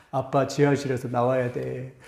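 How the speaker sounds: a daughter scolding her dad, lightly imitated; daughter nagging. Preacher imitating his daughter nagging him, mild mock scold. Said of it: "막 이러면서 막 한 시간 동안 잔소리하는데".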